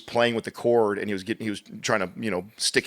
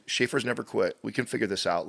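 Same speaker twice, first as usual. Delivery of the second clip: put-on softer, soothing encouragement to a small child; gentle coaching; 5 dB quieter than usual. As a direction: calmly reassure a frustrated kid that Schaefer's never quit. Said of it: "I'll say that again in a moment like that when he starts to get frustrated".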